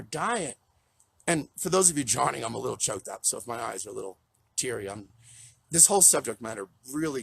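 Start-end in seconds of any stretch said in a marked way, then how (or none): 2.4-5.1 low, soft, teary aside; a little choked up. Real, not acted. Counselor explaining teary eyes to those joining, choked up. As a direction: quietly admit to being near tears.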